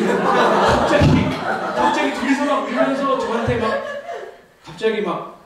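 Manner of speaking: laughing through the story, words stretched out; 웃음 터진 채로 말하기. Real, not acted. Laughing at the children's sudden repentance. (아이들이 갑자기 회개하던 밤을 떠올리며 웃음 섞인 말투)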